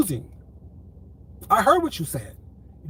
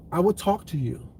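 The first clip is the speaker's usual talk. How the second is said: measured, slightly lowered and composed; calm, controlled voice; 3 semitones lower, 3 dB quieter than usual. Real, not acted. Promising to talk without yelling or fussing, calm and controlled. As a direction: speak with quiet, deliberate restraint. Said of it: "in a very calm, controlled voice".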